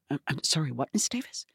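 barely-there, nervous apology; soft and unsure, asking the diva to repeat herself; timid reply. Retold or imitated. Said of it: "and I go".

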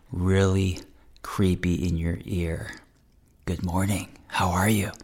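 mock-creepy whisper into the ear. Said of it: "sound like I'm whispering into your ear".

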